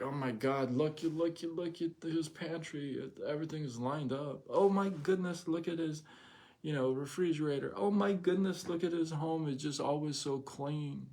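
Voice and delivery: high gushing visitors' voice, pitched well up; gushing family. Retold or imitated. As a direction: marvel over the tidy pantry, mock-amazed. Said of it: "They're like".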